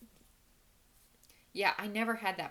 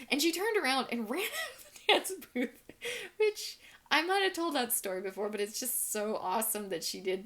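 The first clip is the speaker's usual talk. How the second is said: laughing while telling; 7 semitones higher, 5 dB louder than usual. Real, not acted. Laughing after the scream.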